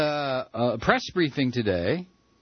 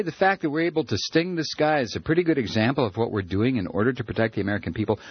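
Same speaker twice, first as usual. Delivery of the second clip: mocking Bush; 4 semitones lower, faster than usual. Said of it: "What do you say?".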